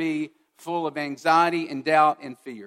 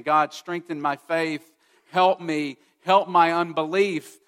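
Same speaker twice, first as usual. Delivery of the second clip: slow start, then louder begging for help; pleading prayer; 5 dB louder than usual. Acted. Preacher voicing Gideon's louder pleading prayer. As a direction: Gideon pleading to God for faith. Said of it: "is essentially saying".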